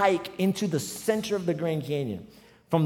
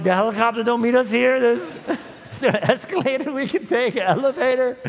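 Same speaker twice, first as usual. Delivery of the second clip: desperate pleading; 7 semitones higher, 6 dB louder than usual. Retold or imitated. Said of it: "I was like".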